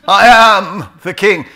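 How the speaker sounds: high, loud, slow and grand, laughing; regal proclamation. Retold or imitated. Mocking how "I'm British" sounds, as a laughing hammed-up king. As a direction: ham it up like a king. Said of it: "sounds like I'm the crown jewels".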